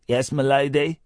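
lightly voiced deferential servant; a quick, understated servant impression; Parker. Host quoting a puppet show's catchphrase, light impression. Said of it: "that's not a bad impression of Parker".

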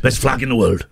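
lightly put-on Welsh; Welsh accent. Shown as a demonstration. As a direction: keep up the comic Welsh accent. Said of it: "I'll do the Welsh accent again".

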